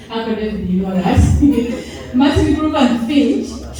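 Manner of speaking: light laugh through the words; amused aside, laughter breaking in; chuckling. Real, not acted. Speaker checks audience knows the place, chuckling.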